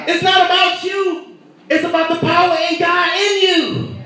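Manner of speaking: preacher to congregation, strong stress on "not"; emphatic preaching. Acted. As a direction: declare "It's not about you" with force. Preacher repeats line loud then soft.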